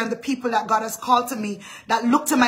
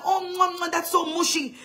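mock daughter groan; 3 semitones higher, 4 dB quieter than usual. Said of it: "what you see".

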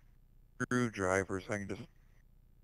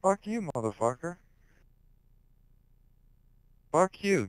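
higher, louder snap; angry retort; 8 semitones higher, 3 dB louder than usual. Real, not acted. Streamer firing back at Hulk, angry. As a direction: throw it back at him.

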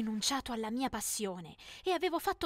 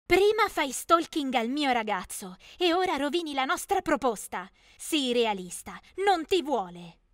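mocking; 2 semitones higher, 5 dB louder than usual. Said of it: "beffarda disse".

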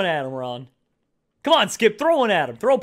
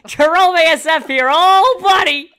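high squeaky intro, louder; helium voice; 8 semitones higher, 8 dB louder, slower than usual. Real, not acted. Real helium voice greeting the channel, high squeak. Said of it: "Do I still have the voice?".

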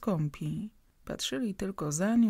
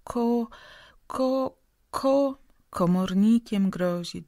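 stuttering; 5 semitones higher, 6 dB louder, slower than usual. A narrator's reading. Stammerer struggling to speak.

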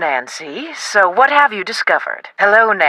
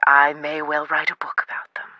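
whispered confidence; 2 semitones lower, 5 dB quieter than usual. Acted. Historian confides book plans.

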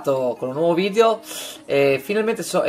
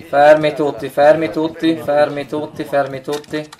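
combat callout. Real, not acted. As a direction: shout to the team to stop. Calling teammates in game.

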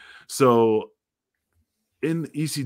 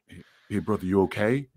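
gentle concern. Retold or imitated. Axel checking on him backstage.

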